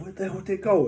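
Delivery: where did my ball go; baffled. Retold or imitated. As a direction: golfer baffled by his lost ball. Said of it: "I was like".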